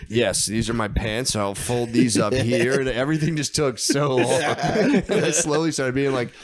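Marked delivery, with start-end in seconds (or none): 0.1-2.8 slow, deliberate self-talk; slow robotic packing. Retold or imitated. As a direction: drag each word out. Packing robotically while tripping.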